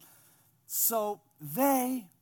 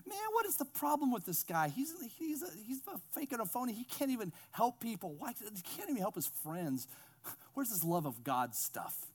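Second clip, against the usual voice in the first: mock critics' whispering; 4 semitones higher, 5 dB quieter than usual. Critics murmuring about Jesus, mock whispered complaint. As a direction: start high and soft, let the pitch fall as the doubts pile up. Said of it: "the critics now start whispering".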